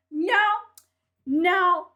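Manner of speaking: sharp loud double no. Real, not acted. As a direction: cut it off hard. Angry rant at critic.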